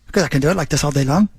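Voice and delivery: quick put-on Irish brogue; Irish accent. Shown as a demonstration. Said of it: "nailing my Irish accent".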